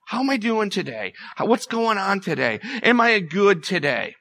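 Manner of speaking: a hint of a worried everyday voice; lightly mimicked self-talk. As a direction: imitate someone fussing over their day. Mimicking everyday preoccupied thoughts.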